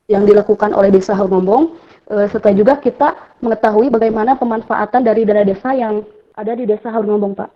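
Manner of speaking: choppy call audio cutting in and out; radio breaking up. Real, not acted. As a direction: voice dropping out over a bad connection. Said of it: "Suaranya putus-putus ya?". (suara putus-putus)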